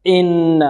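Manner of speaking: jab the glottal onset of "إن"; "إن" attacked hard on its first sound; punched hamza. Shown as a demonstration. Teacher showing the error, jabbed hamza. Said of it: "كذلك لكز الهمزة".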